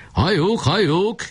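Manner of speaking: high, slow gloating cry; gleeful shout. Acted. Barabás gloating at Kolnai, high and slow. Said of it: "kiabált Barabás".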